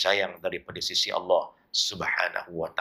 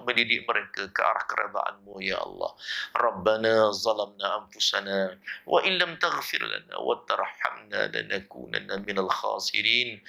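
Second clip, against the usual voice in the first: fervent Malay-Arabic supplication, chanted; closing doa led for the congregation; prayer; 3 semitones higher than usual. Acted. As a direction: plead to God in a steady, rhythmic prayer.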